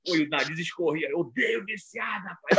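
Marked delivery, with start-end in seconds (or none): 1.1-2.6 imitating a preacher's furious cry; preacher shout. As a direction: yell it like the bishop-cop scolding addicts. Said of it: "Não gosto de viciado".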